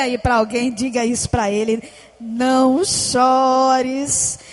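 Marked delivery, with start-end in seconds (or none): 2.2-4.4 a slow, gentle hush; tender comfort. Acted. Telling a neighbour in church not to cry, gently. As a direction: say it slowly like soothing a friend. Congregation prompted to repeat comfort.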